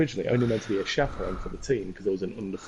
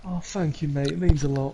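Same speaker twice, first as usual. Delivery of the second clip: grateful manager; 4 semitones higher than usual. Retold or imitated. Manager voiced in story.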